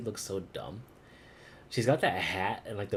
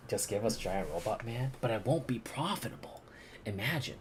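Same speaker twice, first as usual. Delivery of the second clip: whisper; 3 semitones higher than usual. Real, not acted. Whispered aside while playing.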